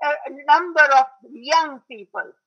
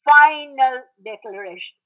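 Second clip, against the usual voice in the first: "final" punched louder than the rest; emphasis on FINAL; 5 dB louder than usual. Shown as a demonstration. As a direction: hit "final" hard to underline it. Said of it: "I emphasize the word".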